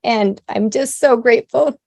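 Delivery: real emotion rising as you give thanks; tearful gratitude. Real, not acted. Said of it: "can't get through anything without crying".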